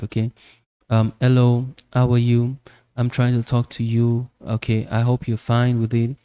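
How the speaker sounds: one flat, unchanging tone; a level, dull monotone demo; monotonous voice. Shown as a demonstration. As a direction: drone it with no rise or fall. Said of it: "that is more like a monotonous voice".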